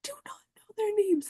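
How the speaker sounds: high, tear-choked whisper; crying whisper. Real, not acted. Repeating that she never learned her attackers' names, crying whisper. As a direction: barely get the words out through tears. Tearful retelling of her assault.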